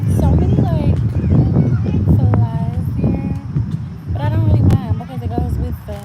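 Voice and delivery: loud, fast griping; loud complaint. Real, not acted. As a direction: complain loudly about flies. Loud complaint about flies.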